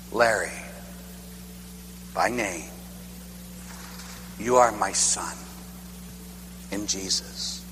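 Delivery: almost breathe it, like a voice within; God speaking quietly deep within him; hushed divine voice. Retold or imitated. God's inner voice, hushed.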